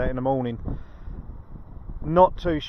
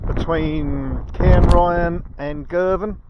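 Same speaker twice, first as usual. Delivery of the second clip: gusty outdoor mic; wind on mic; 3 semitones higher, 4 dB louder, much slower than usual. Real, not acted. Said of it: "Excuse the wind noise".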